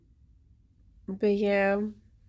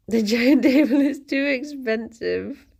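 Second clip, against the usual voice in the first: laughing; 3 semitones higher, 4 dB louder than usual. Acted. Mock Duolingo sentence, laughing.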